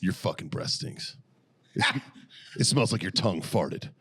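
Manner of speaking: slow, voiceless drill instructor rebuke. Acted. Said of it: "the drill instructor just goes".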